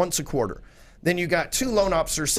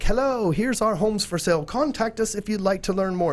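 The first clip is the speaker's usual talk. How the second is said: light mock British accent, a touch higher; 4 semitones higher than usual. Agent mocking old websites in a light British accent. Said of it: "I always use a British accent when I explain it".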